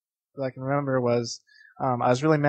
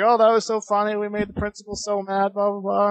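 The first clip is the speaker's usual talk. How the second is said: lightly mocking retold glee, raised pitch; gleeful friend, imitated; 6 semitones higher than usual. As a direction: imitate a kid delighted by the mischief. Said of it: "he was having fun doing it".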